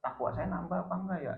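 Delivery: a touch of weeping worry, acted; imitated tearful fear. Umar prays over growing wealth, mildly tearful fear. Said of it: "dia nangis".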